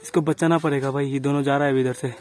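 quiet, tense whispers while watching; hushed frightened narration; hushed and scared. Real, not acted. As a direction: keep your voice down, you're afraid of being heard. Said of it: "डर लग रहा है मेरे को".

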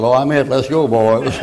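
bold call. Acted. Jesus empties the prison.

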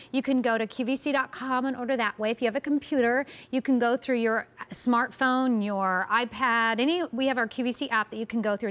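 brisk TV sales pitch; home shopping host. Acted. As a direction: rattle off the ordering options.

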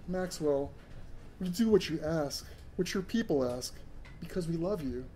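soft, gentle alien plea; oozing compassion. A narrator's reading. Joriander soothes Max at the ice, soft and compassionate. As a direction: speak it softly, full of compassion. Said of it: "His every word oozed compassion".

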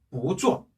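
"보" rising, "쪼" falling sharply in fourth tone; weak-strong tones on "보쪼"; second tone then fourth. Shown as a demonstration. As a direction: lift "보", then drop "쪼". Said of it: "이성으로 읽어준다 그랬죠".

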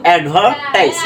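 অ্যাডভার্টাইজ in a British accent, r silent. Shown as a demonstration. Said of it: "এই আরটা কিন্তু silent থাকবে".

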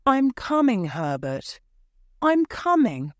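loud high call to someone far off. A narrator's reading. Mother calls to her son outside, loud and high. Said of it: "she called".

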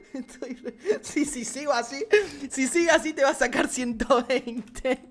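normal talking voice

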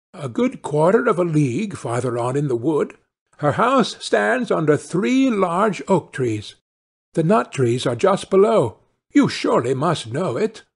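a hint of Little Red's lilt; helpful little girl. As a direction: explain the way like a trusting child. Girl gives directions.

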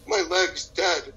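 mock crying. Dieter stuck in the car starts crying, mock weepy. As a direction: lightly imitate a weepy complaint. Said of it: "then you start crying and you say".

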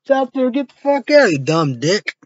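high, loud, crying shriek of terror; mock panic. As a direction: scream like someone spotted a monster. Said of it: "Like the, like".

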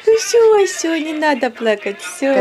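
calm her down gently. Real, not acted. Comforting crying toddler. (успокаивающе)

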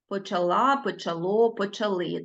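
почала, почало, почали stressed on final syllable; stress on endings. Shown as a demonstration. Teacher shows pupils ending stress, stressing last syllable of почала, почало, почали. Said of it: "наголос падає на закінчення".

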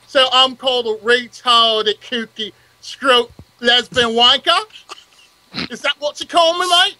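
lightly voiced cocky London lad, rising on the question; Hoxton impression. Mocking the insults back at the others in Hoxton's voice. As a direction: throw the insults back like Hoxton, pointed and indignant. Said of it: "let me do this like Hoxton".

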